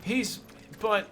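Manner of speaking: panicked stammer. Retold or imitated. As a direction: stutter out a frightened, rising no. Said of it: "Ron will go like".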